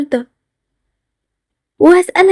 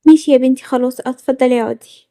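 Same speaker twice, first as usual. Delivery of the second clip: lightly voiced mother, lower and slowing; mother giving in; 4 semitones lower than usual. Mother lets her daughter stay home, lightly acted resignation.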